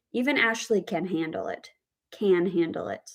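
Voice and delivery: CAN picked out, then repeated; stress on CAN. Shown as a demonstration. Teacher explains ability to handle it, stress on CAN. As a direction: give CAN the weight both times. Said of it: "putting the stress on this word can".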